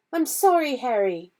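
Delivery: distressed, understated wail. Acted. Hermione apologising to Harry, a mild wail. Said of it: "she wailed".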